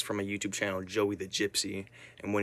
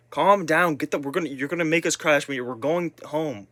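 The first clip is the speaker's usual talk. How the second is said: annoyed brush-off; 5 semitones higher, 4 dB louder than usual. Retold or imitated. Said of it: "other people were like".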